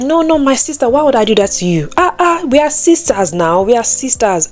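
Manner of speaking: high-pitched, insistent no, no; eager reassurance. Retold or imitated. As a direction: brush off the worry like an excited friend. Friend reassures, insisting they're sisters.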